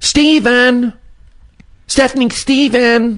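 acted, very high, shrill, high-pitched yell. Answering what mom would say: imitating mom yelling high-pitched. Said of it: "her with her high-pitched voice".

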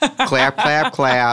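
put-on heavy, strong, over-the-top intense Midwestern accent. Retelling a drag queen leading a club crowd in clapping, intense midwest accent. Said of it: "she had the most intense Midwest accent".

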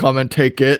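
plain

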